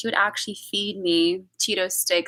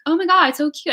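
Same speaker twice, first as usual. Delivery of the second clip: put-on high, loud baby-adoring squeal of delight; gushing; 8 semitones higher, 7 dB louder, faster than usual. Friend admiring the baby she grabbed, gushing. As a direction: mimic someone melting over a baby.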